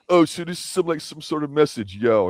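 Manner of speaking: high-pitched mock tough guy; Mario Van Peebles. Podcaster mocking the actor's bad tough-guy scene, light impression. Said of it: "he tries to pull a Mario Van Peebles".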